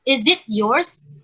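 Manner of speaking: "yours" lifted at the end, unhurried; slow demo question climbing on "yours"; rising intonation. Shown as a demonstration. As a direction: stretch "yours" and send it upward. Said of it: "we use a rising intonation".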